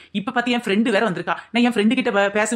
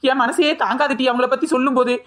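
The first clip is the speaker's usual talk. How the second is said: fake tearful; 3 semitones higher than usual. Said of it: "ஏன் இப்படி கண்ணீர் விடுற?".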